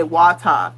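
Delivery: "water" ending in "ah", no R; regional pronunciation. Shown as a demonstration. Vlogger shows what many people say, R dropped. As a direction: drop the R in "water", "wata". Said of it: "A lot of people say".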